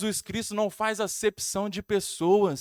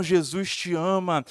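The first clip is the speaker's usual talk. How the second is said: low, slow, firmly projected quote; measured, deep-pitched insistence; retold stronger voice; 4 semitones lower, slower than usual. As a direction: recount the voice firmly, drawing it out. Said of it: "aquela voz fala mais forte ainda".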